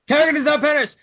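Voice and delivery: hammed-up epic announcement; dramatic declaration. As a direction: boom it like a narrator reveal. Dramatic plot reading.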